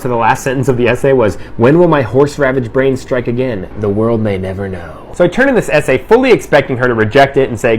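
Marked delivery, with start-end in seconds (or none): 1.6-5.0 suspenseful. Retold or imitated. Student reading out the essay's last sentence, mock suspenseful. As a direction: draw out the mock-ominous cliffhanger. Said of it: "end it on a suspenseful note".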